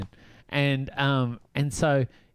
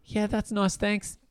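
a curt, higher brush-off; curt and short; 7 semitones higher, slower than usual. Retold or imitated. Sister brushing off the star on FaceTime, curt and short. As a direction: keep it short, not interested. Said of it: "really short".

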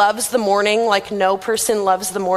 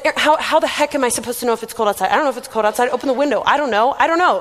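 fast, irritated retort at a roommate; exasperated rant; faster than usual. Retold or imitated. Grumpy roommate snapping at Erin about the weather. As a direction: rattle it off, annoyed and fed up. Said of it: "unreasonably angry with this poor girl".

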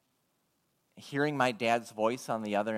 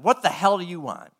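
louder, higher gruff challenge; gruff demand; 5 semitones higher, 8 dB louder than usual. Retold or imitated. Klan leader snarling at a caller, mock angry. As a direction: bark it like a hostile stranger.

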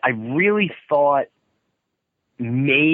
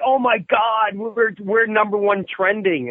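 higher, excited retelling of a friend; retold excitement; 8 semitones higher than usual. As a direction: gush like a manager seeing the charts. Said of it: "Mike Tichy was excited".

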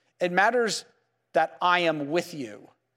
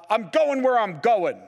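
mildly annoyed, louder-edged retort; mad; 3 semitones higher, 3 dB louder than usual. Acted. Husband heading out brushes off his wife's question, mildly mad. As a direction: act out a touch of anger, shutting the question down. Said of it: "I'm all mad".

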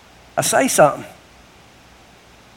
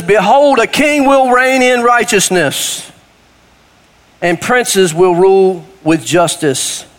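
scripture reading; slower than usual. Acted. Reads scripture aloud.

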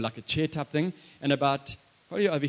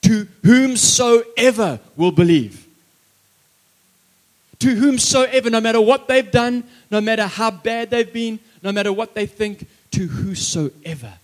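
impassioned preaching; 7 semitones higher, 7 dB louder than usual. Acted.

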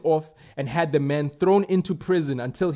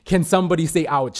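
louder call-out; 4 dB louder than usual. Shown as a demonstration. Preacher presses church to say ouch, louder. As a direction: push the call louder, urging a response.

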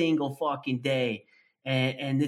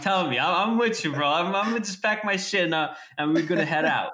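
mock eager. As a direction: play along with fake enthusiasm.

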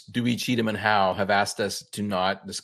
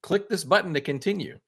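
Twitch prompt voice; 6 semitones higher than usual. Retold or imitated. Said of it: "Twitch is now telling me".

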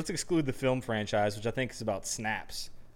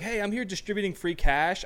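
higher-pitched friendly-stranger act; decoy's pitch; 7 semitones higher than usual. Acted. Disguised server luring the target with free cash, put-on pitch. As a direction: lure them with a put-on higher voice.

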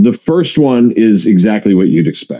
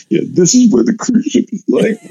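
high-pitched quote breaking into laughter; laughing imitation; 12 semitones higher than usual. Buddy reacting to a tearful cruise encounter, laughing imitation. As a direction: mimic the buddy, cracking up.

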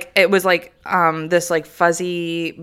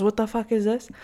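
mock disgust; 3 semitones higher, 7 dB quieter than usual. Repeats aunt's hushed reaction.

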